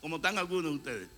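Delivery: loud, high sermon storytelling; fiery preaching. Acted. Preacher telling the Martha story to the church, loud and high.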